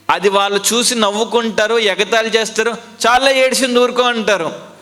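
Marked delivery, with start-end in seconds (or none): 3.1-4.0 mocking hush. Mockers hushing a crying person.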